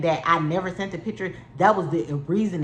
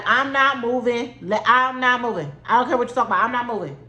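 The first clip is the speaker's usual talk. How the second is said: retold yell; 4 semitones higher than usual. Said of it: "I'm yelling out the window".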